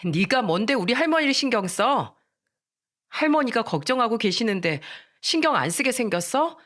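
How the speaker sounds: mildly indignant, pitch lifted; heated quarrel. Acted. Friends quarrelling over a worried grandmother, indignant.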